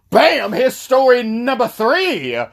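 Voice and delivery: high, drawn-out title announcement; story announcer. Acted. Storyteller unveils story number three, high announcer flourish. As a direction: launch the story with a big slow flourish.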